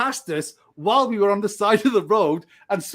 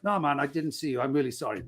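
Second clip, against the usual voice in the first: lower, softer apologetic reply; meek apology; 6 semitones lower, 5 dB quieter than usual. Retold or imitated. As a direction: back down sincerely before the officer. Retold apology to angry officer.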